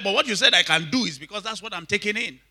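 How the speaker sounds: high-pitched imitation of a retort; retold animated reply. Preacher retelling a brother's answer to a pastor, animated imitation. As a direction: explain it back, pitched well up.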